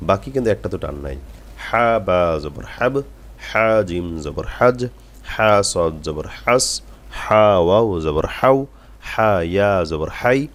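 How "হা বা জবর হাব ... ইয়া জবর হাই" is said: slow, rhythmic letter-by-letter drill; model recitation. Shown as a demonstration. Teacher modelling what to repeat ten times, slow measured recitation. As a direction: spell each syllable evenly, drawing out the letters. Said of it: "এভাবে আপনারা কমপক্ষে হলে দশ বার করে পড়েন".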